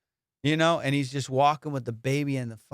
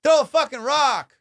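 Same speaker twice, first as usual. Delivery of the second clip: panicky hiker imitation; 9 semitones higher, 3 dB louder than usual. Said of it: "the whole video is him going".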